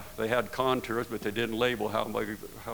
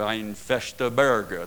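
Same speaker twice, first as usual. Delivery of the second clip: German pronunciation; 6 dB louder, much slower than usual. Retold or imitated. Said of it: "that's the way he would say it".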